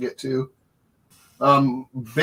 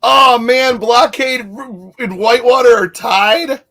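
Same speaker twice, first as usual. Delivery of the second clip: excited disbelief; 6 semitones higher, 5 dB louder than usual. Real, not acted. Poll unexpectedly ends in tie.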